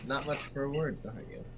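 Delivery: bad Irish accent. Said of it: "It was a bad Irish accent".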